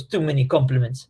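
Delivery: a light mock Russian accent, dry and deadpan. Dylan brushing off praise, in a lightly mocked Russian accent. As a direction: toss off the line in a half-hearted Russian accent. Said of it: "that was a Russian accent".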